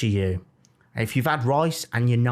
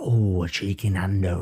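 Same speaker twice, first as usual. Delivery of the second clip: excited response; 4 semitones lower than usual. Acted. Host showing co-host his own reaction, playfully excited. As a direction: relish it in a playful put-on voice. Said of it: "you're not like me where I go".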